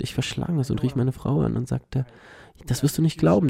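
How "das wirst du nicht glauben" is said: excited. Retold or imitated. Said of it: "ich war so aufgeregt".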